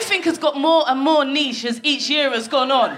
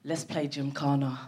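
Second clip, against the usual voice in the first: posh suggestion; 10 semitones lower, 10 dB quieter than usual. Retold or imitated. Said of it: "turns around and says".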